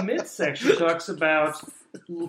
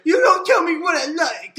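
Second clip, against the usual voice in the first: mocking millennial voice; 8 semitones higher, 5 dB louder than usual. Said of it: "It's like".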